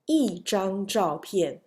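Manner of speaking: slow 一张照片 with a falling 一; fourth-tone 一. Shown as a demonstration. Teacher repeats example, 一 in falling fourth tone. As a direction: make 一 fall firmly before 张. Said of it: "E is fourth tone".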